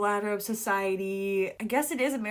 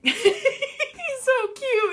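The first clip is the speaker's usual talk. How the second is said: slow, higher, giggling gush; gushing laugh; 5 dB louder, much slower than usual. Real, not acted. Reader gushing over the cute character. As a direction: melt over him, laughing.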